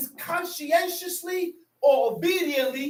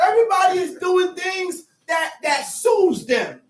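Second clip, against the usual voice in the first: raised, emphatic pulpit delivery; impassioned preaching; 5 semitones higher than usual. Real, not acted. Preacher lamenting that nobody pursues God, impassioned. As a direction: preach it out insistently.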